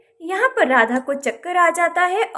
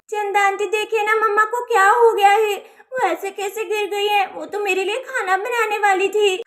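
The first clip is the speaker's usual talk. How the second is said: tearful worry; 3 semitones higher than usual. Acted. Child tearfully begs neighbour to look.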